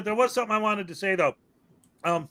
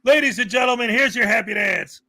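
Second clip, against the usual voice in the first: raised, punchy announcer call; show announcer; 2 semitones higher than usual. Pretend. Host introducing the happy dance, showy announcer call. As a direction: present the act like a host.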